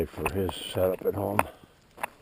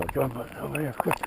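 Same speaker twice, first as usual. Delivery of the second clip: calling from far away; 9 semitones higher, faster than usual. Real, not acted. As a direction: call the dog over from across the yard. Calling a dog to come.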